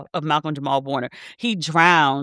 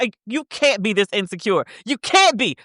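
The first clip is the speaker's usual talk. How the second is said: higher, disbelieving put-down; incredulous scolding; 5 semitones higher than usual. Retold or imitated. To the insecure boyfriend, incredulous scolding. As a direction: tell him off in disbelief.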